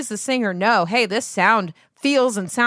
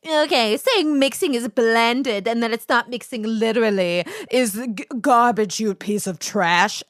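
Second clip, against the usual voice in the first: mocking troll voice; 2 semitones higher than usual. Retelling a troll's insult in a mocking voice. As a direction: sneer it like a nasty internet commenter. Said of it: "being like".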